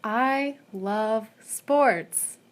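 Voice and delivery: slow, dry sarcasm; sarcastic. Real, not acted. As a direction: say it like you mean the opposite. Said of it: "That is sarcastic".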